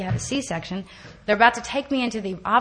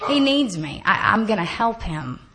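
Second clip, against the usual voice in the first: mock insistence; 2 semitones higher, 4 dB louder than usual. Mocking her own delusion.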